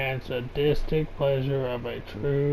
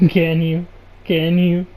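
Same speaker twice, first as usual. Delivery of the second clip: loud; 2 semitones higher, 6 dB louder, slower than usual. Real, not acted. Mocking repeated question.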